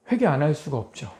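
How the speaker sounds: usual speaking voice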